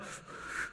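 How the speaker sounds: sharp, voiceless puff of breath; acting out a panicked exhale; panicky breath. Preacher showing his heart race in the water, panicky breath.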